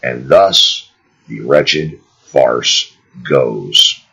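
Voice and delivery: measured read-aloud, slowing at the close; formal book reading. Acted. Narrator closing a chapter for listeners, measured formal reading. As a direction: read it out deliberately, with pauses between phrases.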